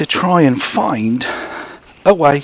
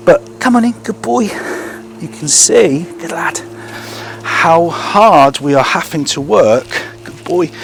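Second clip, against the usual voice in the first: much higher, excited coaxing of the dog; dog praise; 6 semitones higher, slower than usual. Real, not acted. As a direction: pump up the dog with high praise. Working hard to engage dog.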